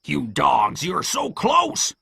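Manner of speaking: frustrated cry. A narrator's reading. Pew cursing his fleeing men, frustrated cry. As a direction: climb to a high, drawn-out wail. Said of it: "cried Pew".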